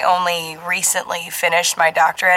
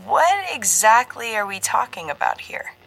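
cautious; 4 semitones higher than usual. Acted. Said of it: "cautious again".

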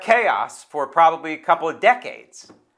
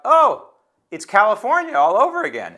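high, raised mock outcry; retold yell; 9 semitones higher, 3 dB louder than usual. Host recalls heckling at the committee meeting, yelling out. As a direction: re-enact yelling out in protest. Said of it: "I just yelled out".

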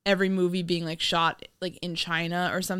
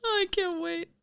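sarcastic; 11 semitones higher, 3 dB quieter than usual. Pretend. Sarcastic reply to mall tour.

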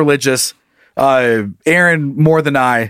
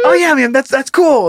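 mock impressed; 8 semitones higher than usual. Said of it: "I was like".

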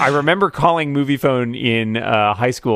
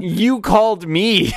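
incredulous; 9 semitones higher, slower than usual. Retold or imitated. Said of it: "incredulous reply".

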